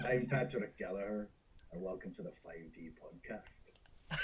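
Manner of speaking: slow, low Northern Irish accent; a slow, deep Northern Irish lilt, trailing off. Shown as a demonstration. Guest reads the podcast intro in a Northern Irish accent. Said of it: "I'll do it Northern Irish".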